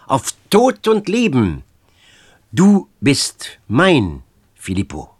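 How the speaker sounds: fierce vow. Acted.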